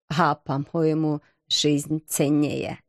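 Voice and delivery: unhurried, understated melancholy; doleful timid knight. Acted. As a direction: reason it out slowly, a touch gloomily.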